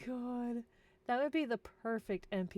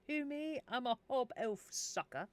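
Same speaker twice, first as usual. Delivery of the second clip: Hob Elf's reply; 4 semitones higher than usual. Pretend. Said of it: "Hob Elf replied".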